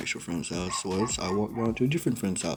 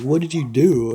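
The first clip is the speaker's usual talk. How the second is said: alarmed dad; 4 semitones higher, 8 dB louder than usual. Retold or imitated.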